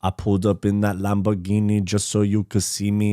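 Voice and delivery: monotone rapped Scouse imitation; Scouse accent attempt. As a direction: recite rap bars in rough Liverpool accent. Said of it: "your Scouse accent attempt".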